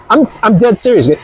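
ordinary talk

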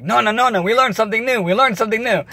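imitating children eager to share; excited kids. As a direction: show off to grandma with glee. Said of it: "And we're like".

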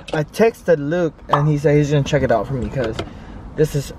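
talking through a bite of food; chewing while talking. Real, not acted. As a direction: mouth full. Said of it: "Sorry if I'm talking with my mouth open".

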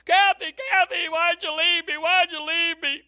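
husband yelling for his wife from bed; mock scream. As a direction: call out like an abandoned husband. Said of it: "I begin to scream out".

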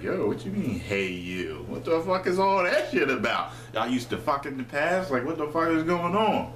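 mock indignant grilling, pitch climbing; indignant questioning. Imagining confronting her over "hey you", mock indignant.

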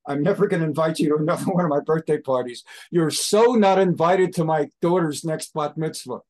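put-on ranting at an old friend, half in earnest; hammed-up indignant scolding; mock angry rant. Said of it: "screams at Obama".

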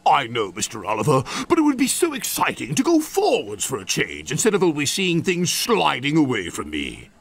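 yearn eagerly, then let it fall away; wistful Toad. Acted. Toad tells Oliver of going forwards, eager then wistful.

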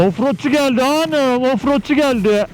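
high, slow teasing call; playful announcing. Acted. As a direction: announce yourself like a proud hero. Playfully announcing arrival offroad.

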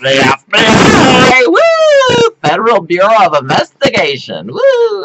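high, loud cheering; excited shout. Real, not acted. Showing the FBI letter to viewers, high excited shouting. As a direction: shout it out in triumph.

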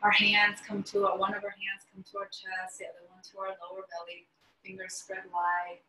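measured meditation voice with long pauses; guided meditation. Acted. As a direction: guide them unhurriedly into stillness, pausing between phrases. Leads a guided breathing meditation.

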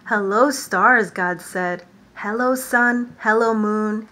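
lively storytime reading, God's hellos called out; animated picture-book read-aloud; reading to children. Acted. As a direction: read it to a class of little ones. Reads creation story to children.

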